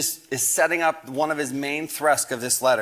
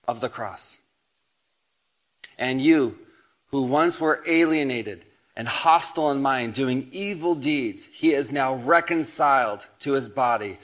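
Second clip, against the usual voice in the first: scripture reading. Acted. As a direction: proclaim each line of the verses as holy text. Preacher reads scripture passage aloud.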